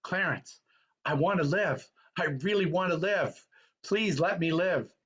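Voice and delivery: lightly voiced pleading George Bailey; begging. George Bailey begging Clarence, mildly pleading. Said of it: "he begs Clarence".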